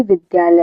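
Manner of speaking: विद्यालय with a clear d-y cluster; correct द्य. Shown as a demonstration. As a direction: sound both द and य in विद्यालय. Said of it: "जबकि सही क्या है".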